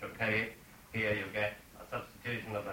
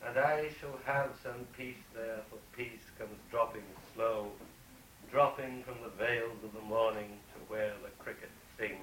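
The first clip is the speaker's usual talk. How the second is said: poem reading. Shown as a demonstration. Reads the poem stanza aloud.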